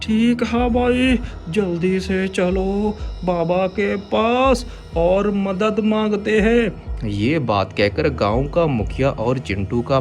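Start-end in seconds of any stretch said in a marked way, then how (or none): 0.0-6.9 high hurried voice; urgent village head. Acted. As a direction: rush to help. (जल्दबाज़ मुखिया)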